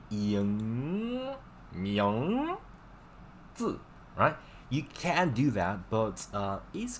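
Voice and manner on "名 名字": 名字 with thick rounded back nasal, northern Beijing style; northern accent done to the letter; heavy northern accent. Shown as a demonstration. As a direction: overdo the northern ng in 名字. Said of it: "if you just do that really, really, to the letter".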